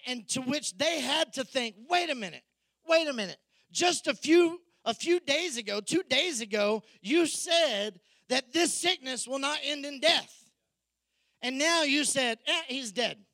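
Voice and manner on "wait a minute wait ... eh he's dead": higher, bewildered wait-a-minute protest; disbelieving protest. Acted. Disciples confronting Jesus, higher astonished protest. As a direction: disciples who can't believe what they heard.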